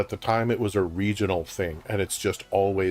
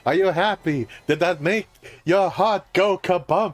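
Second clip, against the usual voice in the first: exasperated Jewish father voice; 8 semitones higher, 5 dB louder than usual. Pretend. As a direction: whine it like a fed-up Jewish father. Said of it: "love when you do your exasperated, uh, Jewish father voice".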